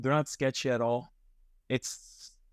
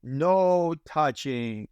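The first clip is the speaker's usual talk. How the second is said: imitating the maid; 5 semitones higher, much slower than usual. Maid explains cafe rules to guests, high and slow. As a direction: mimic the maid spelling out rules, pitched well up. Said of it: "It's exactly how she sounds".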